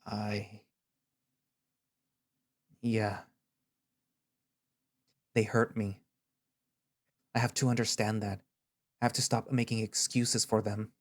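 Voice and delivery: words choked by tears he won't show; holding back tears. Acted. Xander admitting his parents hurt him, near tears. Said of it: "tears reach my eyes".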